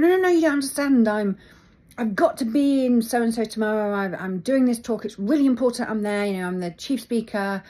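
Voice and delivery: loud, fast, desperate insistence; Ram Dass pleading. Retold or imitated. Ram Dass begging the check-in lady to board, loud and urgent. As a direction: beg the desk clerk to let you on. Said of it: "And he's going".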